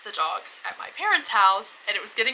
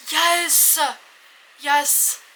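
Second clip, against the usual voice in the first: excited cheer; 7 semitones higher, 4 dB louder than usual. Acted. Sudden goofy self-cheer.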